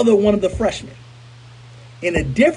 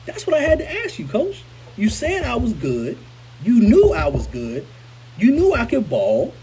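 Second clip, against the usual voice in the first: higher-pitched, aggrieved appeal; pleading confrontation; 4 semitones higher than usual. Retold or imitated. Former player challenging the coach who benched him, pleading.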